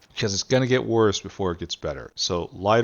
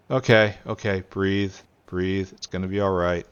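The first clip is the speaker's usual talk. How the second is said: calming oneself down; 3 dB louder than usual. Real, not acted. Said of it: "breathe, breathe. ... calmly and firmly".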